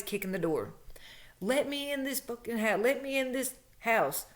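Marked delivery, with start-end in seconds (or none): 1.4-4.3 mock angry demand, pitched high; raising hell. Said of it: "raising all this hell".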